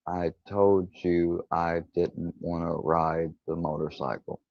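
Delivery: slow, soft tearful complaint. Retold or imitated. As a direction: plead quietly through tears. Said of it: "immediately I just started to cry".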